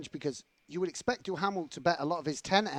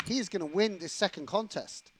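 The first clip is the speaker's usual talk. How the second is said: animated sports commentator, pitched up; play-by-play voice with raised pitch; commentary voice; 4 semitones higher than usual. Real, not acted. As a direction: announce what is at stake. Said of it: "That was my commentary voice".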